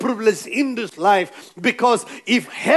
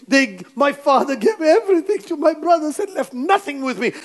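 higher-pitched aggrieved retelling; mock-upset complaint; 4 semitones higher than usual. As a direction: imitate someone tearfully complaining, without real crying. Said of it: "I've seen people cry and feel sad".

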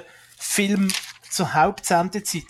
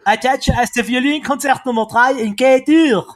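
high, loud pompous announcing; grand announcer; 5 semitones higher, 5 dB louder than usual. Pretend. Mock-grand reading of program.

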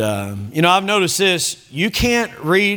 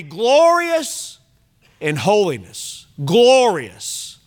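exultant; much slower than usual. Acted. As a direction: lift glorious up in awe. Exultant reading of scripture.

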